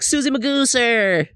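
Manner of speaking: high-pitched cooing to a dog; baby talk. Retold or imitated. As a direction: call your dog in silly baby talk. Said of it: "I baby talk to my dog".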